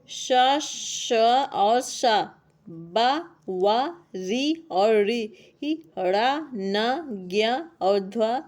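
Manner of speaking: "श, श और श, बा, वा, री और री" sounded out slowly, one letter at a time. Shown as a demonstration. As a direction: draw out each syllable from "श" to "ध्वा", setting it apart. Reads out letters to be told apart.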